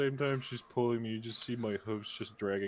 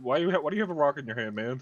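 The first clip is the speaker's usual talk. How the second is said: incredulous; 3 semitones higher, 6 dB louder, faster than usual. Real, not acted. Incredulous question at a rock.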